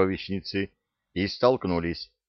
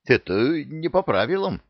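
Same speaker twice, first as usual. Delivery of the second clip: higher, half-hearted protest; weak protest; 7 semitones higher than usual. A narrator's reading. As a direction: try to sound outraged and fail. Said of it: "попытался возмутиться вор".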